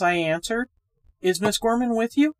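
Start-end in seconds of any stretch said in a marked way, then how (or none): 1.2-2.3 louder calling voice. A narrator's reading. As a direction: call across the room. Reggie calls out.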